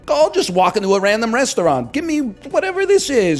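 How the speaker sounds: high, eager gushing; mock youthful excitement. Comic as his younger self in Korea, high and thrilled.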